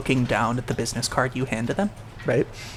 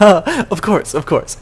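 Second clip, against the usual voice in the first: higher, louder saccharine of course; fake smiling reply; 6 semitones higher, 8 dB louder than usual. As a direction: smile through it insincerely. Worker replies with fake smile.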